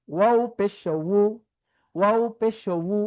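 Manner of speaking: উ as a slow wu from the lips; lip-made wu. Shown as a demonstration. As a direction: draw উ out through the lips, like wu. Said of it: "আমি ঠোঁট থেকে পড়ছি".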